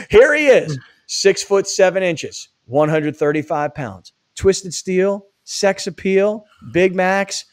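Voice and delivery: big arena introduction, building the crowd; wrestling ring announcer. Acted. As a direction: hype him up like a ring announcer. Hype intro of co-host.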